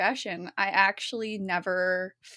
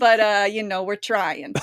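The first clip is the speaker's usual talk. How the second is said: put-on Italian accent; 7 dB louder than usual. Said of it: "I appreciate the Italian accent".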